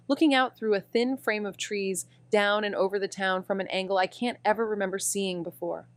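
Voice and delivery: calm, even audio drama narration; story narration. A narrator's reading. Amy narrating the arrival at Marion's house. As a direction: paint the house for the listener.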